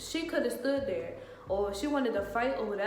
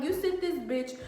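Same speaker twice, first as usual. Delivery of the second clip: higher-pitched accusing outburst; retold cussing out; 5 semitones higher than usual. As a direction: lay the blame, acting out anger. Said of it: "I'm cussing at him and her".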